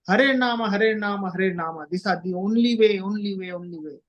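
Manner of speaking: "Hare Nama" three times, stepping down in pitch; insistent triplets of "Hare Nama" and "only way", sinking away; emphatic threefold repetition. Retold or imitated. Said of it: "Three times, emphasis".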